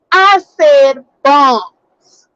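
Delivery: bombs slow and drawn out, set apart; emphatic stress on bombs. Real, not acted. Host correcting the objectors, heavy stress on bombs. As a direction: slowly insist on the word bombs.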